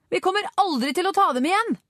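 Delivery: high-pitched cry of despair; despairing shout. A narrator's reading. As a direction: call it out as if all is lost. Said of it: "ropte Richard".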